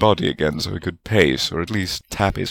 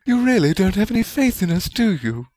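sweetly; 13 semitones higher than usual. A narrator's reading. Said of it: "Rowena said sweetly".

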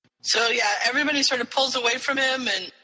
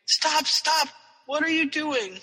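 mock scream; 7 semitones higher than usual. River fighting off Harry's help, mock scream. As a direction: imitate screaming at moderate volume. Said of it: "she's just screaming".

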